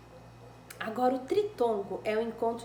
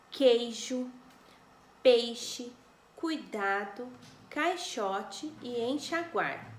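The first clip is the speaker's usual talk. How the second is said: dictation words called out; 4 dB louder, much slower than usual. Shown as a demonstration. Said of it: "Eu expliquei sobre o queijo".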